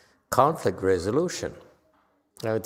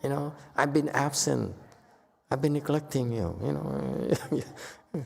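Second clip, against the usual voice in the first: calm apology; 3 semitones higher, 4 dB quieter than usual. Shown as a demonstration. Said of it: "acknowledge it".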